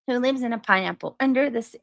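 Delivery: a hint of a cartoon pirate's question; SpongeBob theme pirate. Streamer trying a requested cartoon voice, half-formed impression. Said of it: "read this in your best SpongeBob voice".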